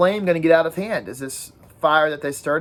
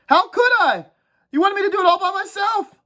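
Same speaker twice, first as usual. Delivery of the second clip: put-on higher-pitched fretful boy, scolding; whiny schoolboy nagging the group, pitched well up; a fussy, higher kid's voice complaining about the fire; Piggy's voice; 4 dB louder than usual. Piggy voiced in read-aloud.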